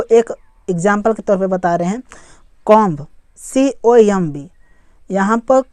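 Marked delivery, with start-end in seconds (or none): 3.4-4.5 slow, letter-by-letter spelling; each letter set apart. Shown as a demonstration. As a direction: spell it slowly for learners. Spelling a word aloud for learners.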